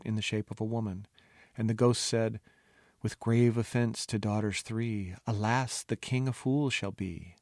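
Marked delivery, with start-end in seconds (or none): 3.0-7.4 eerie ghostly rhyme. Acted. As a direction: intone it like a ghost.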